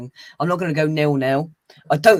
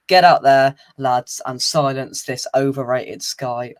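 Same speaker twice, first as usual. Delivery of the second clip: rousing team talk; 2 semitones lower, slower than usual. Retold or imitated. Manager's final words to the team before kickoff, mock rallying shout. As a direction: fire the lads up, mock manager style. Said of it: "final words to the team would be".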